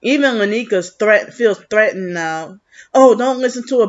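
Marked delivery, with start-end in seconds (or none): 2.9-3.9 higher mock-panicky plea; panicked. Warning people off listening to the speaker, mock panic. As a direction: imitate her panicking, pitched up. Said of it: "you can tell she's panicking".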